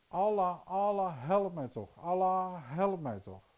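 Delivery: loud, high desperate cry to Allah. Retold or imitated. Old woman in pain crying out to Allah, loud and desperate. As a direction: call out in pain, begging for help. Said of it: "En ze riep".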